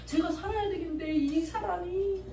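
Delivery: a believer pouring out resentment to God; acted prayer. Believer praying about her mother, pleading then fuming. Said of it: "기도를 통해서 용서를 해봐요".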